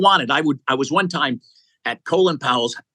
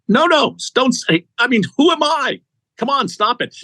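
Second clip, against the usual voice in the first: much higher, louder, pleading no-no; emphatic protest; 10 semitones higher, 3 dB louder than usual. Real, not acted. Urging doubtful listeners to stop selling themselves short, high emphatic protest. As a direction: cut off their self-doubt, fired up.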